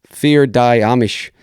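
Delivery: Fear Die Amish said slowly and carefully, like an English reader guessing at Pennsylvania German; unsure pronunciation. Shown as a demonstration. Podcaster reading an article's German sponsor name, slowly and uncertainly. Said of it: "I'm gonna say this wrong".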